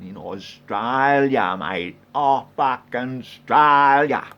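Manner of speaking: loud, stretched-out "Australia"; emphatic shout. Pretend. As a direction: bellow it slowly with exasperated national pride. Hammers home his Australian birthplace.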